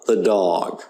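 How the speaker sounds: "the dog" with the as thuh; weak the. Shown as a demonstration. Teacher giving an example, "the dog" with schwa in the. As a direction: unstress "the" before "dog". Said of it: "You just hear the".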